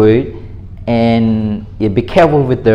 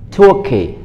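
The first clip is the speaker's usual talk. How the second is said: "Turkey" with a high first syllable; raised, careful "Turkey", stressed at the front; model pronunciation; 7 semitones higher than usual. Shown as a demonstration. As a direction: demonstrate "Turkey" for learners, punching "Tur" high. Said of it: "learn how to say it with me".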